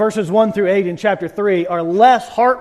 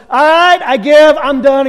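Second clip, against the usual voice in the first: louder exasperated surrender, higher; Job giving up; 3 semitones higher, 6 dB louder than usual. Retold or imitated. Job gives up before God, loud and exasperated. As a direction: throw up your hands and give in loudly. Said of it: "Job goes".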